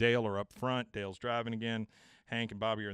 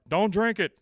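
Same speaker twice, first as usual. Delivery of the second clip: sharp warning; 9 semitones higher, 12 dB louder than usual. Retold or imitated. Warning shout about the jar.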